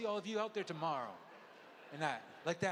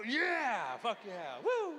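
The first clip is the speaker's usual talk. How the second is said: retold cheering; 5 semitones higher, 5 dB louder, much slower than usual. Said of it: "I was like".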